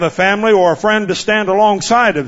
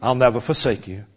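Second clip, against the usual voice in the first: much lower and softer, tender; hushed loving promise; tender whisper of God; 7 semitones lower, 7 dB quieter than usual. Acted. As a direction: comfort the forsaken softly. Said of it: "he says".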